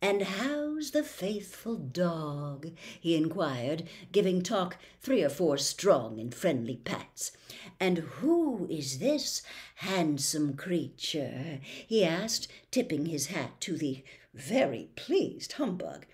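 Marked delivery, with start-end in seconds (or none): 0.0-2.7 soft, slow oily gentleman; amiable. Acted. The faceless gentleman greets Milo, soft and slow. 7.8-11.6 amiable. Acted. Gentleman flatters.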